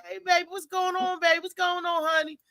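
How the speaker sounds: mock smooth talker. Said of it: "you gotta tell me my name".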